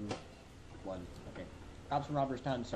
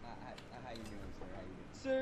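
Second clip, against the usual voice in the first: put-on southern accent; 5 semitones lower, 9 dB quieter, faster than usual. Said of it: "my overemphasized southern accent".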